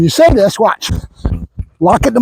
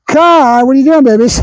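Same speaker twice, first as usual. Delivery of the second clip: fond pet talk; 4 semitones higher, 3 dB louder than usual. Real, not acted. Fondly addressing his dog.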